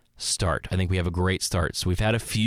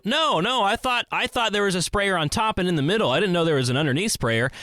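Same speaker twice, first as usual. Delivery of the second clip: sheepish surprise; 8 semitones higher than usual. Retold or imitated. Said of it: "And they go".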